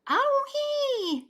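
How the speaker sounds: high, loud yowl of pain; loud high Baby Bear yowl. A narrator's reading. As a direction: yelp it out like a burnt little bear. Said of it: "yowled Baby Bear".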